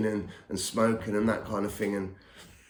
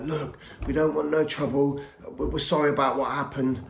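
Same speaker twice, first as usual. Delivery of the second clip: higher-pitched, mildly pleading retelling; imitated apology; 5 semitones higher than usual. Bouncer apologising to the caller to avoid trouble, placating. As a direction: lightly act out someone backing down. Acting out bouncer backing down on phone.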